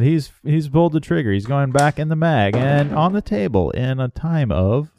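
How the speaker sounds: hushed golf commentary, lightly done; golf announcer. Acted. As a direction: murmur it like a TV golf broadcaster. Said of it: "golf announcer voice".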